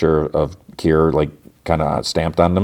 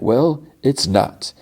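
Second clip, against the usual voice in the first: drawn-out, high-pitched mock-prim retort; stuffy; 8 semitones higher, much slower than usual. Stuffy coworker contradicts a laughing colleague, slow and prim. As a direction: act the stuffy man insisting, slowly. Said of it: "he's so stuffy".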